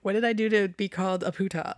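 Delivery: giggling through a mock hurt question; half-laughing, mock offended; laughing Chewbacca quote. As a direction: laugh while voicing poor offended Chewbacca. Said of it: "Poor Chewbacca is like".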